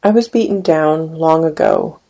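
measured, unhurried poetry reading; poem reading. Acted. Poet reading his poem to an audience, measured. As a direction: read each line as a spoken poem.

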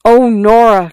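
put-on breathless boy crying out to his girl. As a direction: call her name in distress. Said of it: "cried the boy".

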